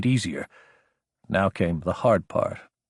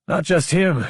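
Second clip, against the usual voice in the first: higher, projected over traffic noise; raised voice; 7 semitones higher than usual. A narrator's reading. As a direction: speak up to be heard over a passing truck. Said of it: "raising his voice to be heard over the automated cargo truck".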